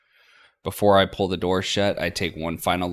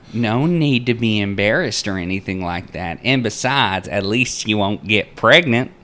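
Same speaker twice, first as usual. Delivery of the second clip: loud, sly folksy lady; teasing Linda; 5 semitones higher, 9 dB louder than usual. Acted. Linda teases the girls about running off. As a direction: tease with a knowing nudge.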